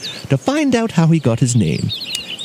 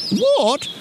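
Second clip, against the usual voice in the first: little bear feigning astonishment; acting surprised; 6 semitones higher than usual. A narrator's reading. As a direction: start high in mock surprise. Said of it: "Brown Nose Bear acted surprised".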